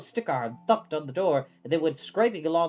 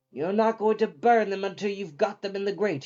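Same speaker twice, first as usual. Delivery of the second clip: warning; 4 semitones higher than usual. A narrator's reading. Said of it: "she warned him".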